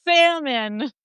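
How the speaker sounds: "Salmon" with a long American short-A and silent L; high, slow demonstration of "Salmon". Shown as a demonstration. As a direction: draw out "Salmon", pitched high. American demonstrating a hard word.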